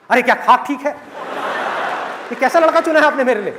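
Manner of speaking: mock-indignant daughter, pitch climbing; lightly hammed-up anger; angry complaint. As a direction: act out an exasperated complaint to dad. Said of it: "इतने गुस्से में क्यों है".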